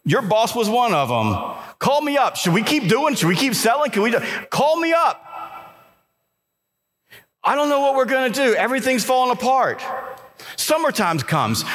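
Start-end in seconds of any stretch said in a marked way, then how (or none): 1.8-9.8 higher, hurried panicked client; a touch of mock panic from a worried client. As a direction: play the frantic client, rushing.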